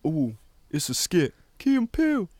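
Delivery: imitating a comedy sketch character, lively; goofy sketch-show bit voice; playful parody of a Key and Peele skit; mock sketch voice. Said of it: "I could hear 'em doing that".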